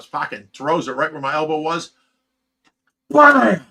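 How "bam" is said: sudden high, loud impact word; explosive bam. Retold or imitated. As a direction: burst out with the fish's strike. Sudden strike in the fish story.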